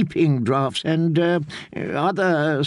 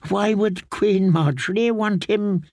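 higher, stammering protest of innocence; a shocked old man denying everything; frightened old maester; 5 semitones higher than usual. A narrator's reading. Old maester swearing his innocence to the queen, higher and frightened. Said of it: "eyes grew as big as boiled eggs".

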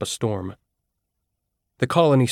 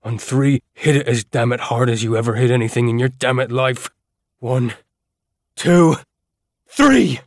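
building countdown; 2 semitones higher, 4 dB louder than usual. Acted. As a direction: count them in, building to the hit. Counting down to ram door.

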